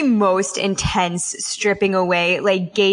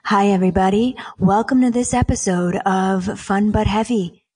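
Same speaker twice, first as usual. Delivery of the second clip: deep radio voice. Shown as a demonstration. Radio host greets listeners in a lowered-octave voice. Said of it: "lower the octave by, like, a ton, like this".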